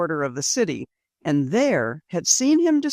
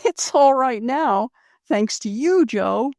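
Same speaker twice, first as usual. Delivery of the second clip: Rose's voice; 6 semitones higher, 3 dB louder than usual. Acted. Rose voiced by narrator.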